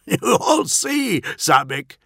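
very high, gleeful chuckling voice; audible amusement. A narrator's reading. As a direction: tease it with a manic laugh. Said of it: "Thematica's amusement was audible".

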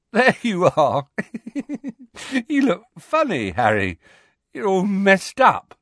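high, loud, giddy delirium; weakly giggling. A narrator's reading. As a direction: giggle helplessly between silly high-pitched remarks. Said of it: "giggling weakly".

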